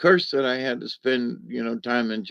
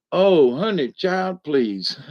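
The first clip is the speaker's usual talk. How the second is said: mock dismissive; 4 semitones higher, slower than usual. Real, not acted. Repeated mock dismissal, louder.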